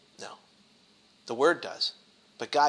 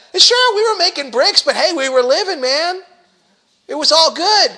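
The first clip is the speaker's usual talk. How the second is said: loud, high whining gripe at Moses; mock griping complaint; 7 semitones higher, 8 dB louder than usual. Preacher playing the people scolding Moses, loud mock complaint. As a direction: complain like ungrateful freed slaves.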